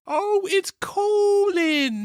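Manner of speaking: whispered gasp, drawn out slowly; hushed mock shock; dramatic whisper. Real, not acted. Co-host reacting to the ex-boyfriend's entrance in a slow whispered gasp.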